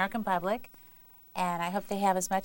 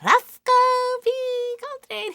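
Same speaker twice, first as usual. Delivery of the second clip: high, slow hammed-up character voice; Roscoe P. Coltrane; 7 dB louder, slower than usual. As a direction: belt out the name like the sheriff. Actor calls out his character's name.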